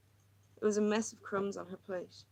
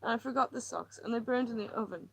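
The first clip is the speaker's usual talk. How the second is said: higher, tense, pleading woman; distressed woman; 4 semitones higher than usual. Acted. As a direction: pour out her misery, near breaking. Lily's agitated monologue.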